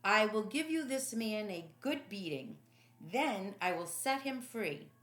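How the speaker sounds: declaring. Acted. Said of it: "Pilate declared".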